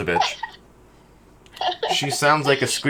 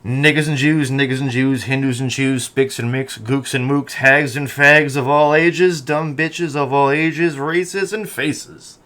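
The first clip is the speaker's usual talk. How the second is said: slowing, drawn-out show intro chant; announcer opening. Acted. Host opening his podcast with a slow rhyming intro. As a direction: roll it out like a radio host. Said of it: "my opening was".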